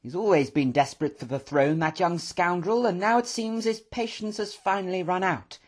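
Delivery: high-pitched, animated professor; excited. A narrator's reading. Professor conveying his brother's letter to the room, excited. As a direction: pour out the news excitedly. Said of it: "pacing round the room in excitement".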